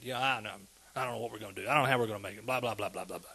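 mopey complaining. Retold or imitated. Mimics people talking negative, moody.

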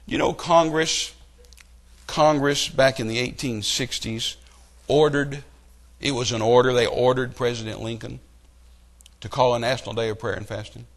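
ordinary delivery

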